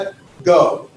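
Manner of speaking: ego started straight on the vowel, in two parts; no H sound. Shown as a demonstration. Teacher showing smooth breathing, ego begun on a bare e. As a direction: split ego into e and go, no H in front. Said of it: "I don't put an H sound in front of it, and I start with the".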